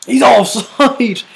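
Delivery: He's drawn out high in shock at the flag; disbelief. Real, not acted. Reacting to the goal ruled out, stunned disbelief.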